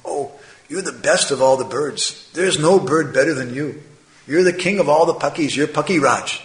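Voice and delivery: mild mock praise with swooping, singsong tune; mocking flattery. Children making fun of the proud crow, mock flattery. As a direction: flatter him lightly, teasing. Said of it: "they were making fun of him".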